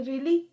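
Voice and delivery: "Really" rising at the end in mild surprise; surprised rising intonation. Shown as a demonstration. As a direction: lift the end of "Really" as a question. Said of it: "pitch high चला जाता है".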